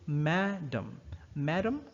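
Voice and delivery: English "Madam" stressed on MAD; "MAD-um", English word stress; stress on first syllable. Shown as a demonstration. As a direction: hit the first syllable of "Madam", weak second. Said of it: "stress is on the first syllable".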